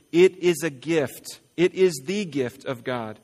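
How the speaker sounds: slow, deliberate reading of scripture. Acted. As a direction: let each phrase of grace land slowly. Reads Ephesians aloud to congregation.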